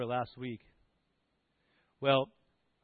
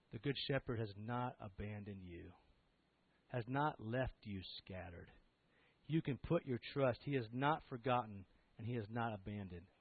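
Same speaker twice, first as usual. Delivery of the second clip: gentle reassurance; 4 semitones lower, 5 dB quieter than usual. Acted. Comforting the congregation.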